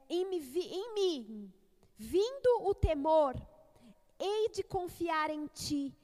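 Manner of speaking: declaimed, emphatic scripture reading; psalm reading. Acted. Preacher reads Salmo cinquenta e seis aloud, declaimed psalm reading. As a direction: proclaim the verse with conviction.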